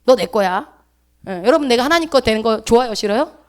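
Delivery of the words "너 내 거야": a firm, louder claim of ownership; God declaring boldly. Retold or imitated. God openly telling his people they are his, boldly. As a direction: say it outright, like a lover staking a claim. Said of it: "그냥 대놓고 얘기하잖아".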